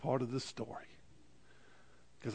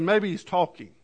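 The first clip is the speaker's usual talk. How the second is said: mild mock taunt; 4 semitones higher, 4 dB louder than usual. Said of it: "Begins to mock 'em".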